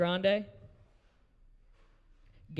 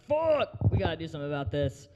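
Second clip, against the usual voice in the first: mock alarm; 4 dB louder than usual. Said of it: "I was like".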